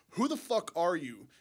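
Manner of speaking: ordinary talk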